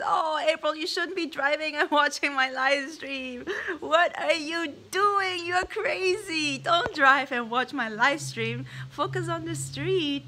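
loud, high playful scolding; mock scolding. Real, not acted. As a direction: tell her off loudly but laughing. Scolding viewer for driving while watching.

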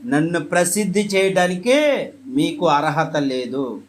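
firm command. Retold or imitated. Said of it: "ఖండితంగా ఆజ్ఞాపించాడు".

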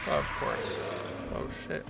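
hushed whisper under breath. Real, not acted. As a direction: breathe it out unseen. Whispered while hiding.

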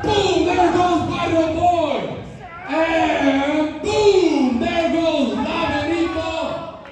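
rising hype call on each knockdown; excited shout. Real, not acted. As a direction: boom it out as each one falls. Three wrestlers knocked down in turn.

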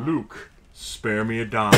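low, slow villain impression; drawn-out deep voice, mock-solemn plea; Darth Vader. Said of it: "Darth Vader talking bank".

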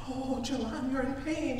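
imitated Indian instructor, high and soft; Indian accent. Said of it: "She's an Indian lady".

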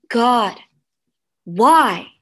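loud, anguished cry to God; angry weeping prayer. Acted. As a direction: demand an answer from God, loudly. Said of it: "she wept with anger".

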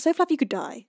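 said through a laugh, relaxed. Real, not acted. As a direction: give up and laugh it out. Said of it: "Um, how about".

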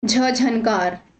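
drawn-out letter झ leading into झनकार; pronunciation demo. Shown as a demonstration. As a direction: slowly sound झ, then झनकार. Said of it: "इसका उच्चारण".

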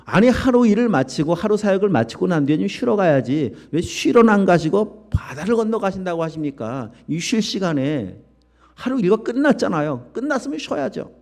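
high, whiny complaining disciple; a touch of a tired, irritated disciple; grumbling complaint. Acted. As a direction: moan about missing your rest. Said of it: "불평으로 가득해 있고 짜증으로 가득해".

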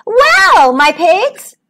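put-on high, loud old-pig greeting; exaggerated old pig calling out; crying out. A narrator's reading. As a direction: hail them in a high put-on voice. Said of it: "she cried".

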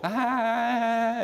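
high put-on childish "아" groan; daughter's whiny groan. Dad imitating sleepy daughter, high whiny groan. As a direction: whine like a sleepy kid refusing to get up. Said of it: "이래".

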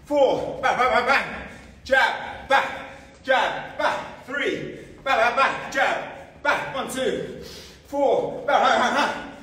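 high, loud, laughing combo calls; excited laughing calls. Real, not acted. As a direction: shout the drill through laughter. Fast pad drill, laughing calls.

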